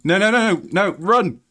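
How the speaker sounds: high, frantic no no no; panicked yelling. Real, not acted. Streamer panicking at the game, frantic high yells. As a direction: panic as the run falls apart.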